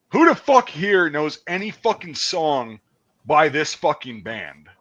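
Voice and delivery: slow, barking drill sergeant; lightly voiced drill sergeant. Drill sergeant demanding volunteers.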